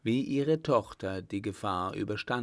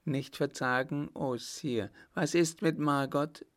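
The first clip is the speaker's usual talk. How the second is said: higher-pitched worried mother; anxious cry; 5 semitones higher than usual. A narrator's reading. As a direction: call out, fearing the news. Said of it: "rief Frau Richemont". (besorgt ausgerufen)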